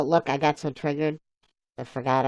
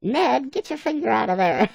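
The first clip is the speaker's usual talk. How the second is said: higher, louder startled yelp; mock alarmed Bob; 9 semitones higher, 5 dB louder than usual. Bob yelling at Ned, imitated higher and alarmed. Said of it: "And he's like".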